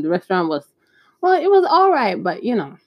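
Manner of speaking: usual speaking voice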